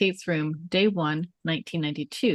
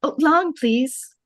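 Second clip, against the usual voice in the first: put-on higher, louder eager kid voice; little girl; 9 semitones higher, 5 dB louder, slower than usual. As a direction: beg sweetly like a small girl. S0 voices young Annie.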